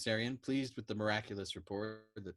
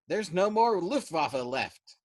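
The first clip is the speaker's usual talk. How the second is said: higher, louder slow grieving wail; 8 semitones higher, 9 dB louder, slower than usual. A narrator's reading. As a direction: drag it out in a lament. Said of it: "he wailed".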